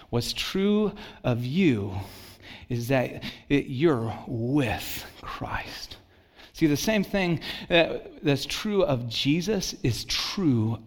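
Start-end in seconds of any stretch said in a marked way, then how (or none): 0.1-6.0 slow whispered emphasis. Acted. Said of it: "whispered emphasis".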